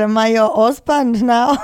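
badly faked Nigerian accent; mock Nigerian accent. Host teasing co-host as her husband, mock Nigerian accent. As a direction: tease in a put-on Nigerian accent. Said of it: "did not even remotely sound Nigerian".

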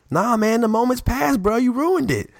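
high, whiny let-down voice; mock disappointed. The Sports Nation guy telling the speaker the moment has passed, with a mock pout.

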